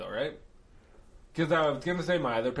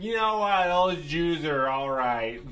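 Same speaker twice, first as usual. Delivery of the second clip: put-on drunk Hitler; 3 semitones higher, 4 dB louder, slower than usual. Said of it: "he's like".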